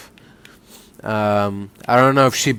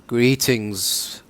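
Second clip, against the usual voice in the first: softly attempted sultry woman's voice; lightly put-on sultry female voice; 5 dB quieter than usual. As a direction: try a sultry greeting, drawn out. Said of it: "trying to do like a sultry woman's voice".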